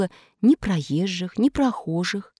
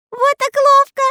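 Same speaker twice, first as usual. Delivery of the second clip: high, loud laughing jeer; mock him through laughter; laughing mockery; 8 dB louder than usual. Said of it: "захохотали все". (насмешливо со смехом)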